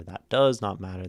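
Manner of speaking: DOES punched loud mid-phrase; stress on DOES. Shown as a demonstration. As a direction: hit DOES, easing off "not matter". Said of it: "emphasizing a word changes the meaning".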